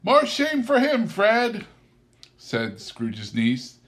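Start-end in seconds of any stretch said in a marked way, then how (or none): 0.0-1.7 high, louder indignant retort. A narrator's reading. Niece answering her husband Fred indignantly. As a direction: scold him with wifely indignation.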